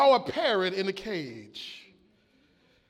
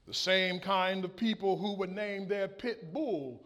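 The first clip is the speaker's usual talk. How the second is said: parrot voice; 4 semitones lower, 10 dB quieter than usual. A narrator's reading. Parrot delivers the punchline.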